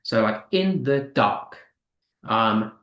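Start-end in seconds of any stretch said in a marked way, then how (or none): 0.5-1.6 "in the dark" as two weak beats, then strong "dark"; stress on last word. Shown as a demonstration. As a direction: land on "dark" in "in the dark". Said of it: "and then stressed".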